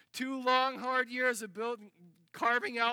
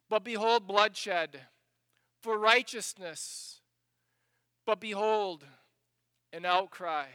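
forceful scripture reading; 5 dB louder than usual. Acted.

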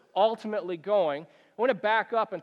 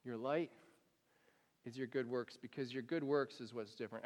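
soft, low, unhurried preaching; hushed sermon; 7 semitones lower, 9 dB quieter than usual. Acted. Pastor to congregation, soft and low. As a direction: speak the verse quietly to the flock.

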